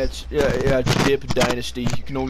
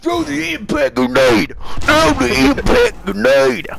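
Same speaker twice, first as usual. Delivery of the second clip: high, loud frantic order; urgent shouting; 11 semitones higher, 8 dB louder than usual. Real, not acted. Gamer ordering a teammate to throw the grenade, urgent shout. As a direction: yell each word at your teammate.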